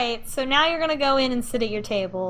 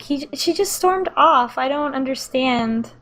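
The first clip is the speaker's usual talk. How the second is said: slow, higher puzzled tone; bewildered stepmom; 4 semitones higher than usual. Acted. Amanda tells the dad his daughter left, slow and bewildered. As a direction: sound lost and hurt. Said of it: "Amanda's gonna be like".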